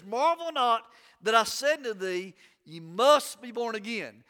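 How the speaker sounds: firm weight on "must" in "ye must be born again"; emphatic. Retold or imitated. Preacher quoting Jesus on being born again, emphatic. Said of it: "He says it very emphatically".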